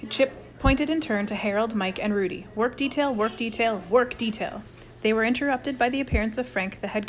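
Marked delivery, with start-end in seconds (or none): 2.5-4.6 stern punishment. Acted. Chip handing out punishments in turn.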